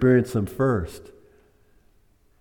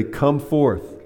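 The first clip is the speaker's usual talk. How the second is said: loud call; 5 semitones higher than usual. Retold or imitated. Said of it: "he said it this time in a loud voice".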